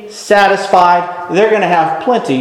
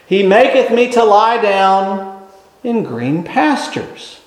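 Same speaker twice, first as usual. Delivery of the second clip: slow scripture recitation; slower than usual. Acted. Quoting Psalm twenty-three.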